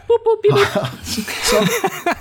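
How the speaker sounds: high robot beeps, breaking into laughter. Pretend. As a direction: chirp like a robot, then laugh. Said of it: "That's my robot noise".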